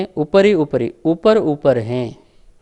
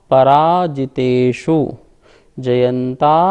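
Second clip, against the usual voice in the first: slow, louder recital, word by word; slow sutra recitation; 3 dB louder, much slower than usual. Shown as a demonstration. Teacher reciting the sutra slowly from the board. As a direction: intone every name from the board.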